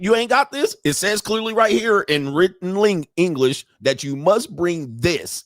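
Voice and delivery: high, indignant mock scolding; pissed-off judge. Judge scolding him over the missing document, irritated. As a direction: imitate an exasperated judge laying down the rule. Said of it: "'cause he was pissed".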